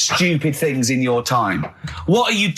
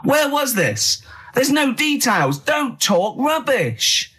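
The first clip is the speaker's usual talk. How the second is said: incredulous rant; 4 semitones higher than usual. Real, not acted. Ranting disbelief.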